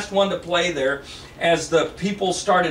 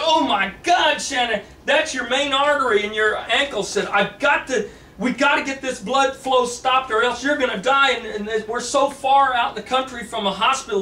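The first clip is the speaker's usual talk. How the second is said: panicked; 5 semitones higher than usual. Acted. James panics over bleeding artery.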